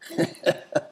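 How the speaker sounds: short, high breath of a laugh; feeble laugh. A narrator's reading. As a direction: manage only a brief, weak laugh. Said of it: "Was all that John could manage".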